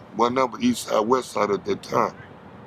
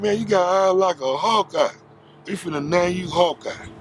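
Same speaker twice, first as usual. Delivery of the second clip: retold praise; 7 semitones higher than usual. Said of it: "They said".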